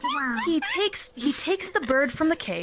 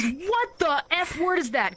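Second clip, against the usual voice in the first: shocked husband; 4 semitones higher, slower than usual. Acted. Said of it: "Can't say the F word".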